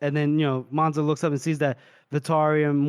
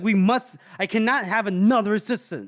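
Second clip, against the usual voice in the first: mildly indignant, higher-pitched insistence; retold indignation; 4 semitones higher than usual. Retelling his anger that Day got captured, mildly indignant. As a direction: insist firmly, imitating someone furious. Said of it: "He was furious".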